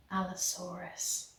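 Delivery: barely audible, breathed out; soft whisper. A narrator's reading. Tanis naming the dinosaur in awe, soft whisper. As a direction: say the name so softly she can hardly hear it. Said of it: "She whispered it so softly".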